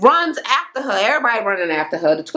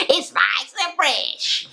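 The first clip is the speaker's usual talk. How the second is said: laughing quote; 3 semitones higher, 4 dB quieter, much slower than usual. Retold or imitated. Laughing at the retold boast.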